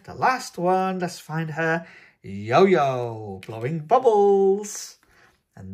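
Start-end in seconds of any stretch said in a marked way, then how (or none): 2.2-5.0 excited reveal. Real, not acted. Unboxer reveals the last figure to young viewers, loud.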